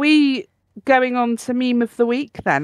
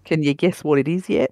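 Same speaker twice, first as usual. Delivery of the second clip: low mock Australian accent, lifting on "yet"; poor Australian accent; 4 semitones lower than usual. Host repeats the meme caption for cohost, hammy Australian accent. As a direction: have another go at a bad Australian accent. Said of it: "I can't do a very good accent".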